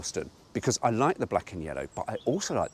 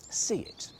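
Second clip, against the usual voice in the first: whisper; 6 semitones higher, 5 dB quieter than usual. Pretend. Whispering brochure slogan.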